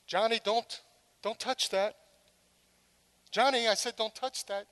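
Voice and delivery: mild repeated warning; calm mother calling her son; patient calling. Retold or imitated. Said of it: "The call goes out often".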